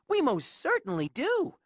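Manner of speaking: lightly high piping voice; small voice, proud; piping mayor. Acted. Mayor assuring Horton, lightly high piping. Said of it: "piped the voice".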